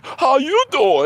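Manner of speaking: high, slow sing-song greeting; mock host greeting. Mocking the host's greeting again, high and slow. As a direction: stretch it out, gushing. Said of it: "And they would say".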